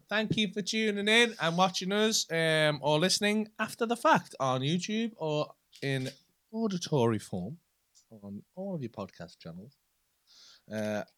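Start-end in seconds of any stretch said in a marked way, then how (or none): 0.1-9.8 put-on slow, posh English accent. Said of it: "doing the posh voice".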